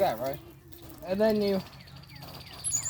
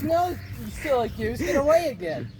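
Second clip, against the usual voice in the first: playful protest; 5 semitones higher than usual. Retold or imitated. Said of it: "I'm like".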